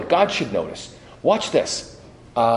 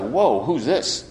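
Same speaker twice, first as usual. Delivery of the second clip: surprised dad; slower than usual. Retold or imitated. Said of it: "And your dad's like".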